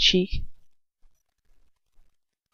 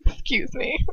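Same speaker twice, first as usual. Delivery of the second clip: whispered excuse me; 5 semitones higher, 5 dB quieter, slower than usual. Real, not acted. Aside to listeners.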